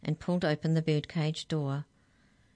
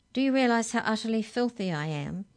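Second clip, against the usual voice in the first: higher, mildly indignant question; 6 semitones higher than usual. A narrator's reading. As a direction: accuse with wounded outrage. Mallory keeps scolding Arthur.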